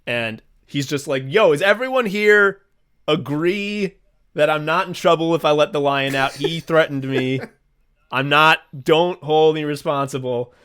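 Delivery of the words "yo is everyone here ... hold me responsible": panicked keeper. Retold or imitated. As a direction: plead to the crowd in a mock panic. Lion keeper voiced, panicked appeal.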